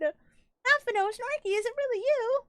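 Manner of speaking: high, emotional character voice; voiced reunion, tearful joy. Player voicing characters reunited, tearful joy. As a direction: read the reunion with a catch of tears.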